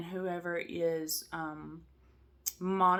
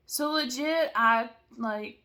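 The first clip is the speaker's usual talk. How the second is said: excited quote; 5 semitones higher, 8 dB louder, slower than usual. Retold or imitated. Friend's text retold excitedly.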